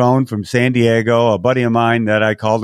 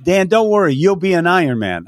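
higher, emphatic reassurance to a nervous friend; upbeat pep talk, pitched up; encouraging call; 6 semitones higher than usual. Retold or imitated. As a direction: pump him up before the race. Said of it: "I said".

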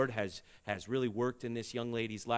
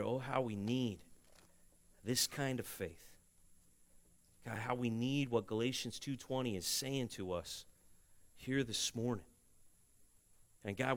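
prayer. Acted. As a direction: pray it over the congregation. Leads closing prayer.

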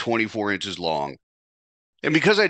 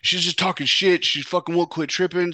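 imitating Tony; 9 semitones higher than usual. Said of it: "And he's like".

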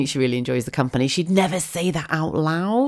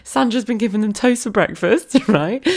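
high laughing account; 7 semitones higher, 3 dB louder than usual. Real, not acted. Speaker to listeners, laughing about the toast. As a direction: laugh through the words.

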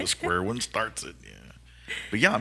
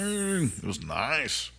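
impressed; 7 semitones higher, much slower than usual. Retold or imitated. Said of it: "And I was like".

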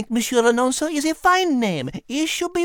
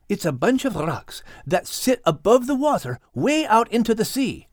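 put-on lower, Scottish-accented cat voice; Max the Scottish cat; 3 semitones lower than usual. Max hinting to Kate at a secret plan. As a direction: keep a secret with a sly grin. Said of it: "Max explained".

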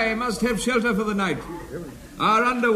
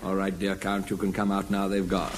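hushed; 11 semitones lower, 7 dB quieter than usual. Acted. Whispering to hidden count.

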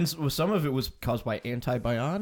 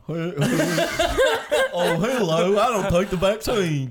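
put-on Southern accent; 3 semitones higher, 3 dB louder than usual. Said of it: "What if I was a Southern guy?".

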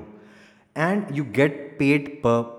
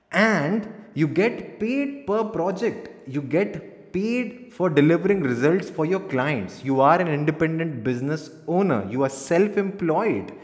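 energetic; 2 semitones higher than usual. Shown as a demonstration. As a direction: pitch it up with energy. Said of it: "energetically बोल सकते हैं।".

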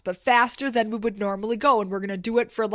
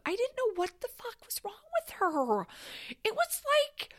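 whispered aside; 14 semitones higher, 4 dB quieter than usual. Real, not acted. Confiding about friend.

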